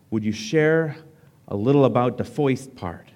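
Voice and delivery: lightly voiced Brooklyn accent; a hint of old Brooklyn in the question. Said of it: "asked in Brooklyn patois".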